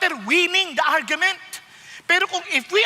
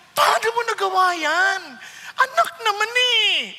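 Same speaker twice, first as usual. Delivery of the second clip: pained fatherly concern; 4 semitones higher than usual. Retold or imitated. Preacher voicing a father to his misled son, anguished. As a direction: plead like a heartbroken dad to his child. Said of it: "a feeling of great concern".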